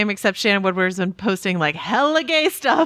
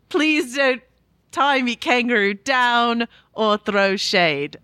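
mock Australian accent; slower than usual. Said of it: "What accent do I have to do right now".

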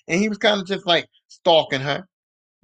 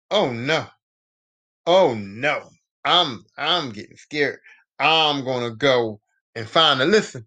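mock scared; 6 semitones lower, slower than usual. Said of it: "like, scared".

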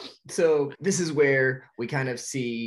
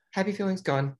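higher, a cracking laughing shout; laughing outburst; 8 semitones higher than usual. Retold or imitated. Marlin facing the anglerfish, laughing outburst. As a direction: blurt it out while laughing. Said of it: "And then Marlin's like".

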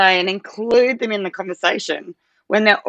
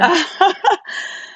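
emotional laugh; 12 semitones higher than usual. Real, not acted. Embarrassed at getting emotional.

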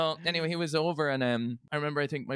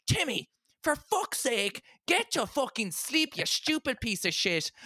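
mock parent scolding; 8 semitones higher, slower than usual. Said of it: "and they're like".

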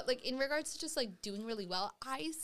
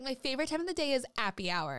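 Rebecca voice; 5 semitones higher, faster than usual. Retold or imitated. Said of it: "that right there was Rebecca".

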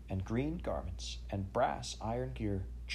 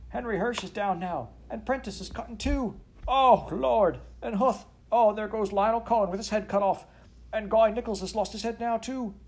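much higher, louder horrified cries; panicked; 12 semitones higher, 6 dB louder than usual. A narrator's reading. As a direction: shriek out each name as they fall. Clerk watching men killed.

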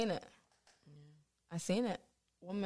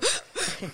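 imitated crying gasp; 12 semitones higher, 6 dB quieter than usual.

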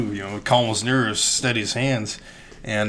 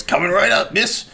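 mock bartender; 11 semitones higher, 5 dB louder than usual. Bartender serving lady.

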